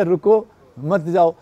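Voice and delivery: slow, रुको set off from मत जाओ; रुको first, then मत जाओ as its own unit; comma after रुको. Shown as a demonstration. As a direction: break the phrase after रुको. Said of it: "पे कॉमा लगा दिया".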